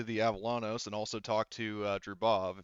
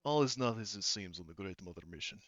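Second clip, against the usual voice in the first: cryptic warning; 6 dB quieter than usual. Acted. Drubov privately warns the crew about the mission, cryptic warning. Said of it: "and he says to you".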